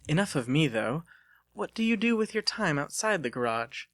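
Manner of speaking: put-on a refined young woman teasing her suitor; Delia's voice.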